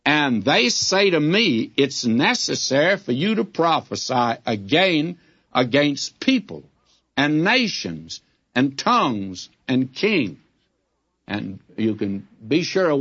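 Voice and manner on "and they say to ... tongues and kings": reading scripture aloud. Acted. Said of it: "I'm reading it".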